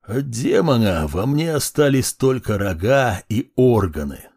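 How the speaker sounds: put-on dry, creaking old man; dry creaky voice. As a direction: creak it out drily. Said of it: "сухо и очень скрипуче".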